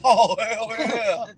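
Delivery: slow, loud drawn-out hell yeah; real delight, stretched long; delighted cheer. Real, not acted. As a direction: savor the punchline out loud. Cheering the Eddie Murphy punchline.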